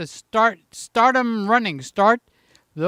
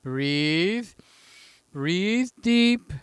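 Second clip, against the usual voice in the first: calming himself; much slower than usual. Real, not acted. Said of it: "Just calm down".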